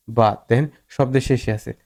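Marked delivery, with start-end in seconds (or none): 0.1-0.4 "বাথ" closed on an aspirated t; final th like থ. Shown as a demonstration. Teacher's example of word-final th, said as থ in "বাথ". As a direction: end "বাথ" with a puff of থ. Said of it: "থয়ের মতো উচ্চারিত হয়েছে".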